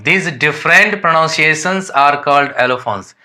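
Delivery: reading English textbook lines slowly and deliberately; careful dictation pace for students; slow read-aloud definition. Shown as a demonstration. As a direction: dictate it word by word to the class.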